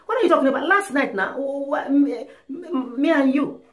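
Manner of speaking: acted indignant husband, tripping over the words; flustered disbelief. Husband insisting to wife about last night, flustered.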